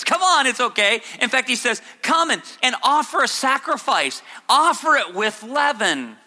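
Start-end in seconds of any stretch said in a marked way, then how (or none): 0.0-1.0 mock reassurance. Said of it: "very much a sarcastic thing". 2.0-6.2 sarcastic invitation. Retold or imitated. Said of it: "very much a sarcastic thing".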